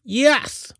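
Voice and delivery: high, drawn witchy purr. A narrator's reading. Witch confirming Joel's dawning fear, purring. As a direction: purr it with sly satisfaction. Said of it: "Zeldabub purred".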